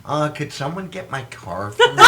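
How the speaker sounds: lightly imitated actor's polite request; Henry Winkler. Actor asking someone to fetch his car, light impression. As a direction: make a mild celebrity impression, amused. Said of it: "he talks like".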